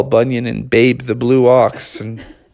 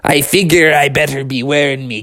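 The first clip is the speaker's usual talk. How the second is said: lightly voiced storybook pirate; pirate talk. Dad dons pirate hat, light pirate voice. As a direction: play the pirate putting on his cap. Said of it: "going to be a pirate today".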